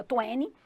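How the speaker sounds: "twenty" dropping the t, twe-ni; American twenty. Shown as a demonstration. Teacher showing students the American twenty. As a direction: say "twenty" American style, t swallowed after the n. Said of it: "ou na pronúncia americana".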